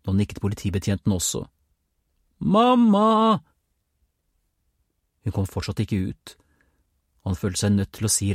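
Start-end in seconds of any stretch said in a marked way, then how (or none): 2.4-3.4 long, high, loud call. A narrator's reading. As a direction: stretch the call out into the house. Boy keeps calling his mother. (langt, høyt rop)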